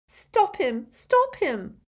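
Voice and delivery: high, urgent plea; alarmed cry. A narrator's reading. Girl cries out as the elf hurts himself, high alarm. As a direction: cry out to have it stopped. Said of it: "Hermione cried".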